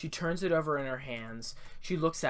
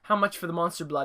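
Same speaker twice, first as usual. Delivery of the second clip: loud, pushy How much; insistent demand; 6 dB louder than usual. Acted. A boy pressing the store owner, loud insistent demand. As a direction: bark the price question at the shopkeeper.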